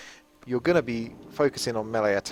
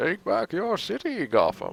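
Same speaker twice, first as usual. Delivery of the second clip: very high, big, swooping supervillain voice; 9 semitones higher than usual. Speaker, after admitting a poor Batman, shows off their Bane voice. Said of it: "I can do the Banes".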